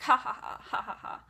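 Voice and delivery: imitated villain cackle in spoken ha-ha's; mock maniacal laugh. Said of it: "she's laughing maniacally".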